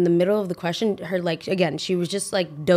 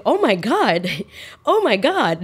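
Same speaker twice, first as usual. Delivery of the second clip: higher-pitched mock-panicked exclamation; retold panic; 3 semitones higher, 3 dB louder, slower than usual. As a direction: replay the moment of panic, pitched up. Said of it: "Now I'm panicking".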